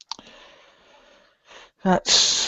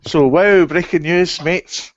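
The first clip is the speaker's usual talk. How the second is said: loud, high breaking-news announcer; mock news anchor; 6 semitones higher, 6 dB louder, slower than usual. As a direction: announce it like a newsflash.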